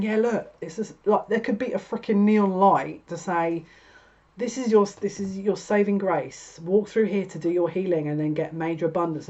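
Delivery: a hint of an exasperated guide; lightly voiced spirit pleading with them; mildly exasperated spirit. Spirit pleading with stubborn querents, mildly exasperated. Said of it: "that spirit going".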